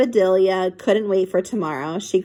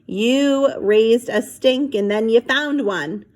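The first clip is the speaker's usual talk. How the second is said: dad teasing; slower than usual. Acted. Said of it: "said Amelia Delia's father".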